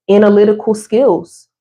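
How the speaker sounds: a burp slipping into the words; words pushed out around a burp. Real, not acted. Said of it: "I hope I didn't burp in the mic".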